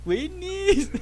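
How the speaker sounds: high, loud mock Chihuahua accent. Teasing the Chihuahua word for sausages, high mock Chihuahua accent. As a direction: call it out high in a Chihuahua twang. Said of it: "se dicen las salchichas allá en Chihuahua".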